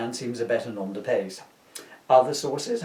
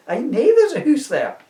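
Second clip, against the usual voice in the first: fumbled punchline; 11 semitones higher, 8 dB louder than usual. Real, not acted. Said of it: "I did that completely wrong".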